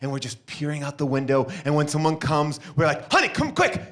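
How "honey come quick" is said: high urgent call to the wife; excited call. Acted. Husband calls wife to the window, high and eager. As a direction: call her over, thrilled.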